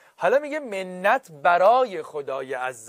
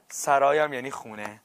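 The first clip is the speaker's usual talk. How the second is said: usual speaking voice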